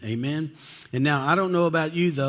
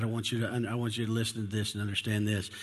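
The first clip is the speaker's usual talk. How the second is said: much softer and quicker; intense hush; 3 semitones lower, 7 dB quieter, faster than usual. Real, not acted. Preacher hushes to plead with the congregation, softer and quick. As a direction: drop right down to draw them in close. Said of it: "I really wanna get this one point across".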